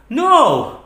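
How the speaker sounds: high, loud outburst; angry denial. Acted. Rejecting partner's accusation, in angry denial.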